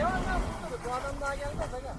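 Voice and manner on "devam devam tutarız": excited urging. Real, not acted. Urging driver on in snow.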